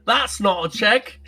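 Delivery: slow, laughing parody of the Aussie movie line; slow laughing shout; laughing mock quote.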